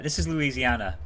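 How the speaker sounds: lightly imitated Louisiana accent; deep Southern accent. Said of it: "quite the deep accent".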